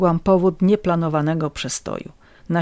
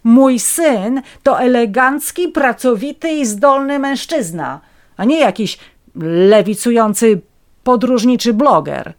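high, loud offended pride; indignant mother; 5 semitones higher, 5 dB louder than usual. A narrator's reading. Mother indignantly rejecting the tramp as her son, high and loud. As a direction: defend her son with outrage. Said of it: "oburzyłam się".

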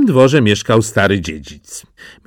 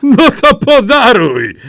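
mocking; 12 semitones higher, 6 dB louder than usual. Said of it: "zaśmiali się bracia".

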